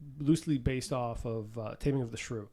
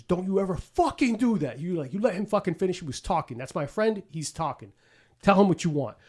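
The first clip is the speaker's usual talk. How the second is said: imitating Penguin's threat; 4 semitones higher than usual. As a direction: snap at the waiter like a gangster. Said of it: "And the Penguin says".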